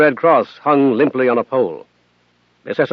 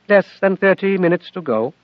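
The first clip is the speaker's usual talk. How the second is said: higher, steady calm machine voice; calm Athena; 5 semitones higher than usual. Acted. Athena counts down to Bud, calm and higher. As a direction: report it without fear. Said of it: "she said calmly".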